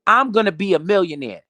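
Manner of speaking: firm, self-assured vow; confident declaration. Shown as a demonstration. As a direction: say it like you already believe it. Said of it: "Tell yourself".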